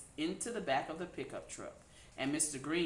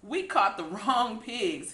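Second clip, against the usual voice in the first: hooted; 4 semitones higher, 7 dB louder, slower than usual. A narrator's reading. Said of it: "hooted Sam".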